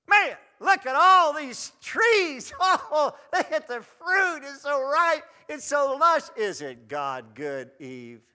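high, loud, slow gushing; mock tempting devil. The devil's pitch to Eve, hammed-up. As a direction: oversell the fruit like a salesman. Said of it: "He didn't say".

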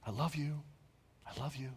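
soft, loving murmur; hushed, affectionate parental voice; tender parent. Acted. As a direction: soothe a child quietly and tenderly. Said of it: "parent would just lovingly stroke their hair".

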